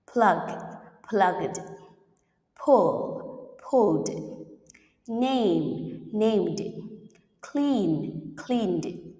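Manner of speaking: each word then its past, "rubbed" ending in d; isolated model words, "closed" as one syllable ending in d; final d drill. Shown as a demonstration. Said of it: "will pronounce d".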